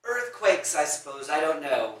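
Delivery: mildly exasperated loud reply. Acted. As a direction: brush it off loudly, a touch annoyed. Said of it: "annoyed by this".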